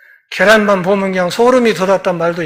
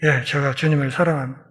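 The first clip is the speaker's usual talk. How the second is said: humble quiet answer; 5 semitones lower, 6 dB quieter, faster than usual. Acted. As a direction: lower and softer, hushed confession. Peter answers Jesus humbly.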